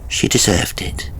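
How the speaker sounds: slow, every word set apart, fading to a whisper; a man coldly confessing in the dark; clear and distinct. A narrator's reading. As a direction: spell out the confession slowly. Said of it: "Very clearly and distinctly".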